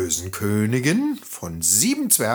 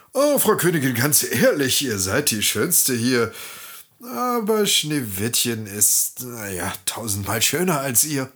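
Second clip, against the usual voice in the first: lightly voiced honest magic mirror; hesitant, candid mirror breaking news; shimmering echoing mirror voice. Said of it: "antwortete der Spiegel, der Wahrheit verpflichtet".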